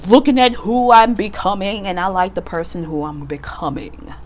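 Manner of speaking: a hint of a sassy talk-show host reflecting on herself; mild campy diva self-affirmation; Wendy Williams meets a Broadway star. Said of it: "That was very Wendy Williams with a Broadway star".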